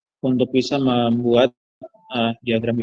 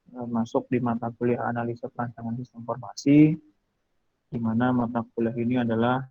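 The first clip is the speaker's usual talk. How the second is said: faint voice, far from the mic; speaking too far from the phone; phone held away; 5 dB quieter than usual. Real, not acted. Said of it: "Suaranya kecil banget".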